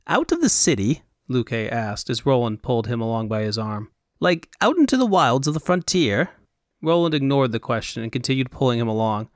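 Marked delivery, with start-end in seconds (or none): 0.1-1.0 surprised Elvunian fop. Acted. Fop figure voiced. 4.2-6.3 surprised Elvunian fop. Acted. Fop figure voiced.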